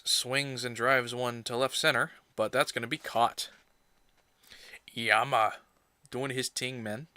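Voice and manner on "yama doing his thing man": put-on light, jokey Jamaican accent slipped in; brief mock Jamaican accent, just a hint. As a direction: toss it off in a half-hearted Jamaican accent. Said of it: "I don't know why I went Jamaican".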